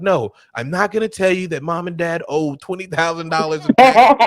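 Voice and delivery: builds to a high, loud squeal on the last words; blurted secret. Retold or imitated. Little sister accidentally blurting the family secret, squealing. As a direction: let the secret burst out, high and loud at the end.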